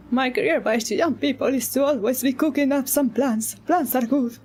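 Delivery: put-on old man voice. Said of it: "I'm giving you the old man voice".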